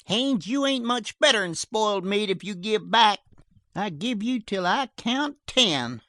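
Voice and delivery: high, loud threat hurled across; furious shouted threat. A narrator's reading. Sheriff threatening Haines, loud high shout. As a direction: count him down with rage.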